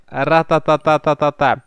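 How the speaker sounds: imitated gunfire. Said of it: "Как говорил классик".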